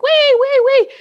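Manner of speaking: high, loud thrill-ride squeal; gleeful wee. Retold or imitated. Ghost whooping to the medium while speeding on a motorcycle, high gleeful squeal. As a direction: squeal it like a kid on a rollercoaster.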